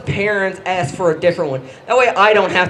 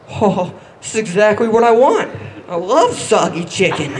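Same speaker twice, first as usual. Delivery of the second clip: mock-cheerful, dripping sarcasm; sarcastic delight. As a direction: pretend to love it, clearly not. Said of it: "you just have to be like".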